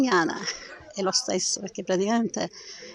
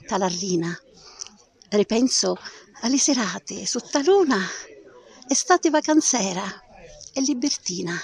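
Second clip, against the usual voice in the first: poem recitation. Acted. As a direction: recite it like a nostalgic summer memory. Recites her Sicilian dialect poem.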